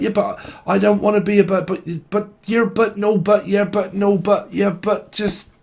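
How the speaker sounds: high, dithering yeah-but-no-but voice; mock a flustered person who won't commit; a high, mocking dither between yes and no; whiny excuses. Whiny back-and-forth excuses quoted.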